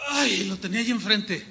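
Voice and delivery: ordinary talk, nothing marked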